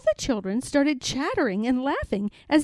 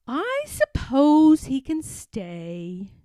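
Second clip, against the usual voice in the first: reluctant nurse; 2 semitones higher, slower than usual. Acted.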